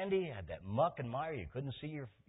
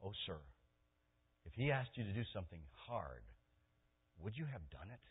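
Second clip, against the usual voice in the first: put-on tag servant girl; 4 semitones lower, 7 dB quieter than usual. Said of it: "the little girl in his household".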